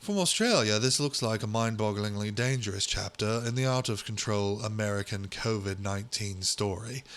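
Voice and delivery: put-on British accent for a quote. Host voicing an Australian's quote from the article, British accent. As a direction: read it out as a mock Briton. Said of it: "he's just gonna be British".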